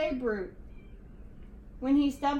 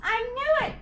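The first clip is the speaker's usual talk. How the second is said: high, loud triumphant whoop; whoop of delight; 9 semitones higher, 4 dB louder, faster than usual. A narrator's reading. George learning the Yeti eats spaghetti, triumphant whoop. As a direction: crow it in triumph. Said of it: "with a whoop of delight".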